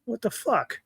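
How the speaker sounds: high, disbelieving what the fuck; incredulous outburst. Real, not acted. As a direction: throw it up in outrage. Outraged rhetorical reaction.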